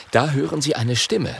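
usual speaking voice

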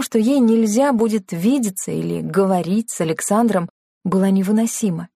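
plain reading voice

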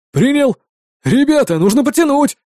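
high shouted call to the team; shouting. A narrator's reading. Balnik shouting to the vigilantes to pull, high. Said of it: "закричал любитель танцев".

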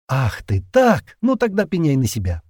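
mock-threatening playful tease; playful whisper. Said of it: "игриво прошептала Лора".

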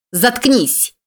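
high, hate-filled scream; furious shriek at the honking driver; hateful scream. A narrator's reading. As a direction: scream it at him out of pure rage. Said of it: "с ненавистью заорала".

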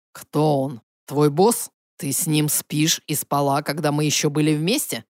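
put-on low, accusing ex-boyfriend. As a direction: press her with jealous questions. Emil's jealous questions.

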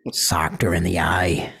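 hoarse whispered aside; whispered punchline. Acted.

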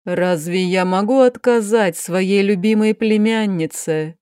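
a lightly voiced tired aristocratic aunt; weary duchess. Duchess to niece Sofi, lightly voiced weary despair. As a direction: speak as the exhausted duchess despairing over her niece.

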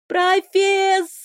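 long, high, drawn-out cry for help; slow high panicky wail; panicked call. Acted. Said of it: "я забила панику".

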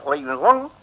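loud, rising disbelief; can't believe the sentence; shocked question. Acted. Hearing of life sentence.

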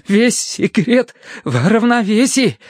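high, slow, effortful proclamation; strained boast. A narrator's reading. Terence explains his trick while climbing in, strained boast.

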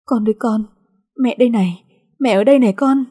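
put-on a frantic mother calling her child; loud calling. A narrator's reading. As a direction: call out to her baby, swelling. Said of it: "lớn tiếng gọi".

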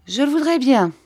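high, lifted smiling reply. A narrator's reading. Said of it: "dit mistress Steerforth en souriant".

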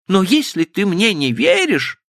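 put-on high girlish voice trailing off and breaking. Stephanie's voice breaks off as she pleads with Frank. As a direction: let the words die, voice breaking. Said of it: "Голос её оборвался".

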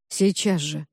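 low, muffled, ominous voice; hollow, frightening. A narrator's reading. Augustus warning Cassandra to leave, low and hollow. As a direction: speak dully, with dread. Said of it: "глухо и страшно сказал Август".

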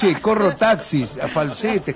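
voz aguda. Shown as a demonstration. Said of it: "canto más agudo".

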